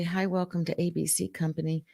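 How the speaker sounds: mock faint, whispered phone greeting; barely there, as if not present; soft whisper. Shown as a demonstration. Trainer imitates a receptionist whispering softly. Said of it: "If they're whispering really softly".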